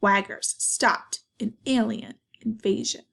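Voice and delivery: animated, deliberate storybook narration; reading to children. A narrator's reading. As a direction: read it out clearly with lively emphasis. Reads picture book to children.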